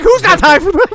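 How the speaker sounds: high incredulous scoff; exasperated. Retold or imitated. His exasperated reply.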